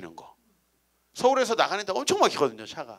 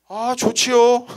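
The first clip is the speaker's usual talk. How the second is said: higher, louder eager "좋지요" out of anger; spiteful yes; 7 semitones higher, 8 dB louder, slower than usual. Retold or imitated. Pastor accepting a deacon's invite to spite his wife, loud. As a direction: agree loudly just to spite her. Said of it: "왜냐면 화가 났으니까".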